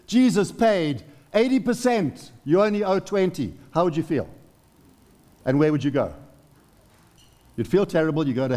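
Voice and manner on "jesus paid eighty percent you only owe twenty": voicing the Father. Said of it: "the Father said".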